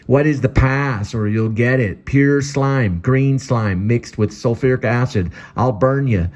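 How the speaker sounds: high, slow, guarded voice; guard the window, suspicious; Ella demanding. Acted. Ella from the window demanding the password, high and slow.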